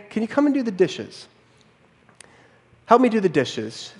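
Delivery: mild imitation of a polite ask; nicely. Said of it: "She says it nicely".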